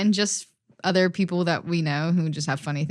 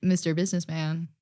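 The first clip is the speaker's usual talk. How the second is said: put-on a light Russian accent on the quoted line; quoting Heated Rivalry in a mild Russian accent; 4 dB quieter than usual. Friend quotes a show line in a lightly done Russian accent. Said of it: "Russian is also the only accent".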